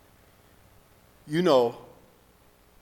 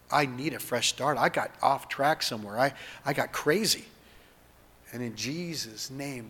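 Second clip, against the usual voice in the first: spoken prayer. Acted. Leads second prayer aloud.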